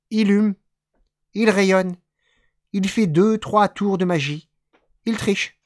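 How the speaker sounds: emphatic, declaimed poetry recitation; poem reading. Acted. Reading a German poet's short text to listeners, emphatic recitation. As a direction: declaim each phrase with firm, lifted emphasis.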